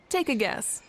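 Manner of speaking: whispered playful tease; a coy whispered dare; teasing whisper. Acted. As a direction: drop to a sly whisper.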